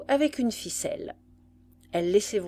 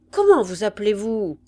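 loud but gentle underneath; lightly voiced army canteen woman; soldierly woman's voice; 8 dB louder than usual. A narrator's reading. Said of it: "reprit de sa voix soldatesque et féminine, douce en dessous". (voix soldatesque, douce en dessous)

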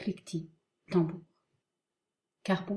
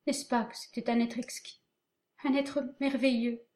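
weeping softly; 4 semitones higher than usual. Acted. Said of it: "Elle pleure doucement".

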